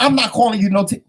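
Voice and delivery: high, quick imitation of a denial; mock protest. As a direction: protest your innocence as the husband. Retold husband denying the name.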